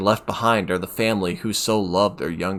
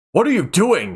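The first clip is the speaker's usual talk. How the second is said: loud, higher angry shout; 11 semitones higher, 8 dB louder than usual. A narrator's reading. Doctor bursts in and shouts at Kime, loud angry shout. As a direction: bark it at him in alarm. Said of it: "he shouts at Kime".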